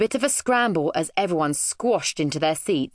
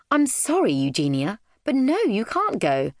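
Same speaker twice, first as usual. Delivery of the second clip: apologetic refusal; 5 semitones higher than usual. Acted. Mum refusing her daughter gently.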